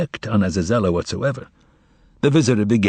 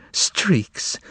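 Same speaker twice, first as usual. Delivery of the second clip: streaks repeated with voice, higher and falling; voiced tearful cry; 5 semitones higher than usual. Margarita to the master, streaks cried aloud. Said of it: "She whispered to him".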